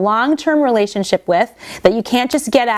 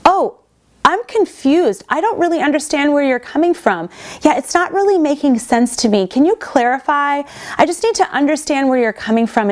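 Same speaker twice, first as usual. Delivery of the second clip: feigned confusion; 3 semitones higher than usual. Shown as a demonstration. Speaker demoing a partner acting confused, mock puzzled. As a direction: play dumb to dodge the anger. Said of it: "act as if things are very confusing".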